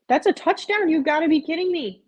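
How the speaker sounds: real stunned excitement; excited shout. Real, not acted. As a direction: shout in disbelief at the screen. Reacting to Hail Mary.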